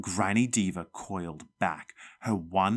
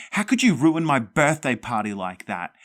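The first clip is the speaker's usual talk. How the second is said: furious shout; 5 semitones higher, 6 dB louder than usual. A narrator's reading. Girl furious at ghost.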